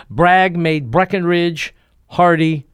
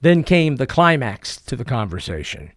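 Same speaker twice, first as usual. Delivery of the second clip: ordinary delivery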